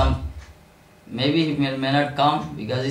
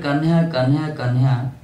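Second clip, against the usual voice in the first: calling out; 3 dB louder than usual. Retold or imitated. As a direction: call out across the river. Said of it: "when he shouted".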